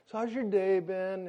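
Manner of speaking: soft, casual question; quietly chatty imitation of a midwife; calming small talk. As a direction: soothe a nervous husband with small talk. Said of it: "She's trying to calm".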